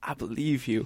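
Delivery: hushed, soft whisper close to the ear. Retelling how a security guard spoke while dragging the speaker out: imitating a whisper. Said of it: "whispers in my ear".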